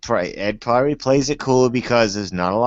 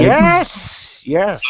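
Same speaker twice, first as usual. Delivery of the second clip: a squealed yes, much higher and louder; mock moan; 9 semitones higher, 4 dB louder than usual.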